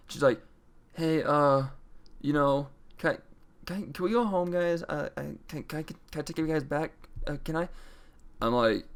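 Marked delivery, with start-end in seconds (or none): 0.9-7.7 put-on higher, halting little girlish ask; lightly voiced, hesitant date begging a ride home; timid date. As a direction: stammer it out like a nervous girl asking a favour. Retelling her hesitant text.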